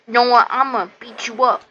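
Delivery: loud mock threat; hammed-up villain taunt. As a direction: bark it like a cartoon bad guy. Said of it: "He says".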